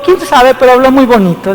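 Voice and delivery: put-on gushing old lady. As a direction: coo it like a charmed churchgoer. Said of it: "una señora me dice".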